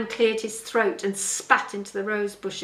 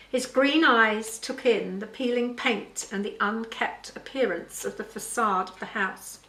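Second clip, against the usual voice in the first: measured storytelling read; story narration. A narrator's reading. Author reads her father's story to listeners, story narration. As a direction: read the tale aloud clearly.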